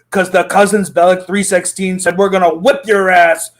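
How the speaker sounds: lightly hammed-up wrestler trash talk; a hint of a pro wrestling promo. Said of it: "I've been waiting to cut a wrestling promo".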